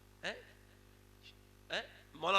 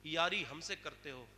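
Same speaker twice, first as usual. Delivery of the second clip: voice from the unseen; 3 semitones lower than usual. Acted. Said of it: "ہاتف غوی سے آواز آئی".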